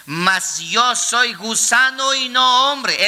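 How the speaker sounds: drawn out slowly, NO stressed; slow solemn quote. Shown as a demonstration. Pastor quoting Christ's words to the church, slow and solemn. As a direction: read "Mas yo soy gusano y no hombre" slowly, leaning on "no". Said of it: "El Cristo de la gloria mencionó".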